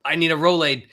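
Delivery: playfully wincing at a gut ache; hammed-up pained cry; mock heartburn. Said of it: "it sounds like".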